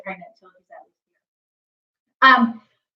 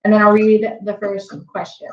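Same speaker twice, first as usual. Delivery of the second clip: mouth full of hot food. Real, not acted. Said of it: "so my mouth is on fire".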